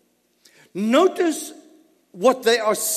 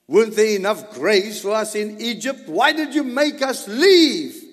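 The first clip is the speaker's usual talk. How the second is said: mock whiny complaint, pitched up; whining complaint; 4 semitones higher, 4 dB louder than usual. Israelites complaining to Moses, mock whiny and higher. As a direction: imitate the grumbling Israelites. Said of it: "And this is what they said".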